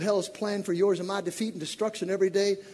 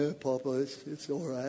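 lightly voiced unbothered teen; 7 semitones lower, 7 dB quieter than usual. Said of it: "He just walking around".

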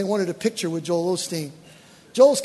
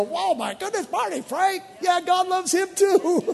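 high, shouted mock astonishment, laughing; mock shock; 10 semitones higher than usual. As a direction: play the shocked churchgoer, much higher. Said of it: "some of you are gonna go".

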